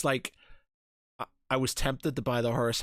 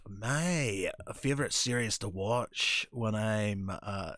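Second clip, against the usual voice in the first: put-on Scottish accent; slower than usual. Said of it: "do you like my Scottish accent?".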